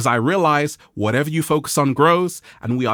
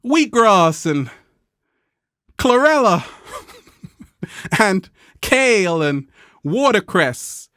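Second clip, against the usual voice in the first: emphatic; 5 semitones higher, slower than usual. Real, not acted. Emphatic food list.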